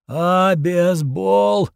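very slow, slurred moan; mutant moan. A narrator's reading. Dying mutant moans his answer to the hero, very slow slur. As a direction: drag out the garbled word in pain. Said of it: "простонал мутант".

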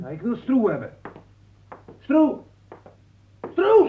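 high, loud yelling for Stroe; demanding shout, climbing in pitch and force. Acted. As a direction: call out insistently, rising to a scream. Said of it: "Schreeuw toch niet zo".

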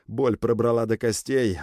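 plain reading voice

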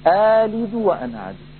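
آلد with only a natural two-count length; short alif recitation; short madd. Shown as a demonstration. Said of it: "لا داعي لتطويل المد هنا".

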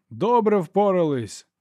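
high, slow shouted добре впорались; shouts from the crowd. A narrator's reading. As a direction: echo it like a rowdy crowd. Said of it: "долинули вигуки".

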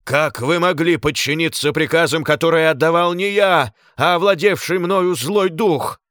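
high, loud raging shriek; seething shrieking spirit. A narrator's reading. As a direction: shriek like one possessed. Glaucus shrieks about evil spirit.

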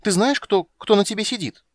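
put-on high, loud demanding child; a little princess bossing him; childish threat. A narrator's reading. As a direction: push him to answer.

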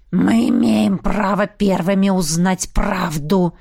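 медленно, с лёгким рыком, сдержанно громче; злобно прорычи требование; рычание. Acted. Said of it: "зарычал вурдалак с ирокезом". (сдержанное рычание вурдалака)

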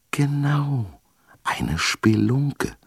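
breathy whispered answer from the dark. A narrator's reading. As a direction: whisper it secretively. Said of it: "flüsterte die Stimme". (geflüstert, leise aus der Dunkelheit)

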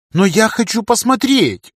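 put-on high, slow capricious child; whiny little girl. A narrator's reading. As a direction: whine like a spoiled little girl. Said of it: "капризничала девочка".

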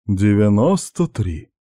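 slow, firm and final; firm baritone. Acted. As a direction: lay down the number like a strict boss. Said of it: "твёрдо заявил сочный баритон".

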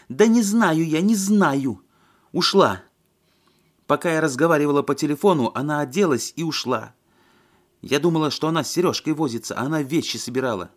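high, loud frantic yelling; hysterical yell. A narrator's reading. Lena yells back at Alexei, frantic and high. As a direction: blurt it out half screaming.

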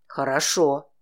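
low man's voice with a bared-teeth smile; feral grin. A narrator's reading. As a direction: grin like a beast as you say it. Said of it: "улыбнулся он звериным оскалом". (низко, со звериным оскалом)

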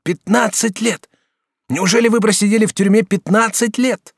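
student aghast at fifteen years; shocked disbelief. Acted. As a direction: gasp it out in disbelief. Student shocked by prison term.

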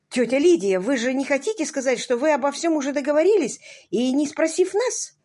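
lightly voiced protesting niece; upset niece. A narrator's reading. Возмущённая племянница протестует. (взволнованная племянница)

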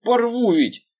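high shouted threat; angry threat. Acted. Veryovkin threatens the detective, shouting. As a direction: snarl it like a threat.

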